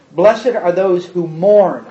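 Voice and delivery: slow, low and deliberate, each word weighed; slow reading. Shown as a demonstration. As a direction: read "mourn" slowly, letting it fall. First slow reading of the verse.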